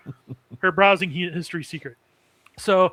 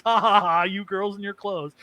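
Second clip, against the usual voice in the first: mock hearty laugh. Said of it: "that's literally what he says".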